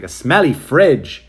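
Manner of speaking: slow, loud disbelieving question on smelly; incredulous. Retold or imitated. Other clerk answering on the radio, incredulous. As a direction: stretch "smelly fridge" in disbelief. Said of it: "he's like".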